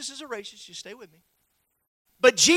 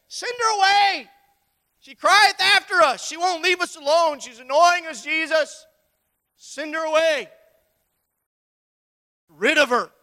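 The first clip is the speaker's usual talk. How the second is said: higher and slow, exasperated; annoyed disciples; 4 semitones higher, 4 dB louder than usual. Acted. Disciples begging Jesus to dismiss the woman, higher and slow. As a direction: brush her off, fed up.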